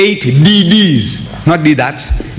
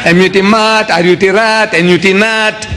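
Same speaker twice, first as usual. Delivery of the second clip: schoolroom spelling recital; 2 semitones higher than usual. Retold or imitated. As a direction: chant the spelling drill in even, rhythmic groups. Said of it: "they teach me".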